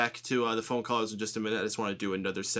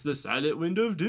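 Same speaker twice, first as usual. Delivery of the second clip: booming, higher announcer intro; dramatic announcer; 5 semitones higher than usual. Acted. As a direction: hype up the caller's name. Introducing caller by nickname.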